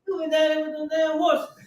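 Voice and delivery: imitating the wife's complaint through laughter; a hammed-up scold, cracking up; laughing mock scold. Wife scolding, retold while laughing.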